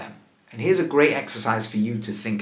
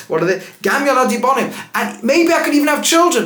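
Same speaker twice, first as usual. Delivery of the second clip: much higher and louder, incredulous reading; Naomi's wild argument; 9 semitones higher, 5 dB louder than usual. Retold or imitated. Teacher voicing Naomi's strange speech, high and loud. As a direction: pitch it up as if the argument gets more absurd. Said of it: "She then carries on".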